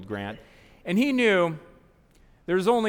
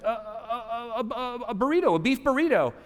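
mock stammering panic; 8 semitones higher than usual. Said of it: "She's like".

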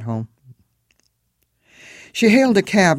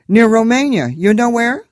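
high, loud Eastern European cabbie voice; thick Moldovan accent, chatty and friendly; 9 semitones higher, 8 dB louder than usual. A narrator's reading. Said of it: "This one had an accent".

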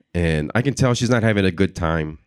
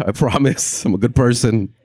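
laughing plea; 4 semitones higher than usual. Retold or imitated. Comic showing a crowd he means no harm, laughing. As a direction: protest innocence through laughter. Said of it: "I put my hands up too".

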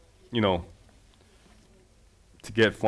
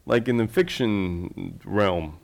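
imitating polite encouragement, higher-pitched; tactful encouragement; 4 semitones higher than usual. People gently nudging the filmmaker toward fiction, imitated tactful encouragement. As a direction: put on a mild, diplomatic lilt, starting high. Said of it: "They say it more like".

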